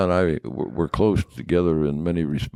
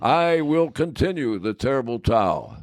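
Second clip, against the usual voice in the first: higher, proud radio-host proclamation, lightly imitated; Myron's radio voice; 3 semitones higher than usual. Myron promising radio listeners the towel stays, imitated. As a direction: announce it like a folksy radio man. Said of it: "that's the way he said it on his radio show".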